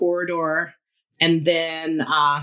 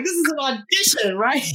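high, incredulous question; surprised; 8 semitones higher than usual. Retold or imitated. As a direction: ask it in disbelief. Retold question, higher and odd.

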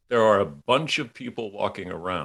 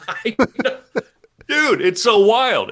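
laughing delight; 7 dB louder than usual. Real, not acted. Laughing delight at friend's point.

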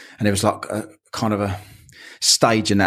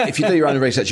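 laughing; 6 semitones higher, faster than usual. Real, not acted. Laughing after mock quote.

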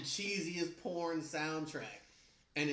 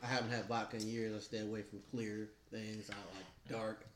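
Batman voice; 7 semitones lower, 3 dB quieter than usual. Pretend. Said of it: "That was my Batman voice".

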